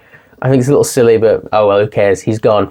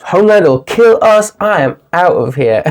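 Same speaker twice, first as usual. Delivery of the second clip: hammed-up scared exit; panicked refusal; 7 semitones higher than usual. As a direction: squeal a cowardly refusal. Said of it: "Is it".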